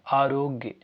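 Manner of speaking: ordinary talk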